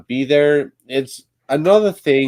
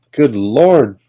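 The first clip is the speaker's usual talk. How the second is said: louder, drawn-out good Lord; exasperated; 3 semitones higher, 7 dB louder than usual. Real, not acted. Stuck Lego builder loses patience, exasperated outcry. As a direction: let the frustration burst out. Exasperated streamer can't find piece.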